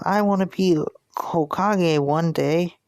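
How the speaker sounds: put-on high, slow, dreamy kid voice; Naruto. Boy tells the pirate his dream, high kid voice. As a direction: pitch it up like a hopeful little boy. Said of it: "Naruto would be like".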